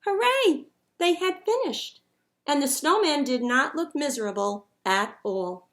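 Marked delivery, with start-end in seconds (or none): 0.1-2.0 cheer. A narrator's reading. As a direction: cheer at finishing. Children cheer.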